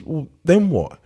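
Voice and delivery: high-pitched acted query; questioning fisherman. Fisherman pressing the businessman about being rich, questioning. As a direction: pitch it up, prodding for the next step.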